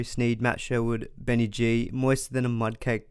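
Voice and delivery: ordinary delivery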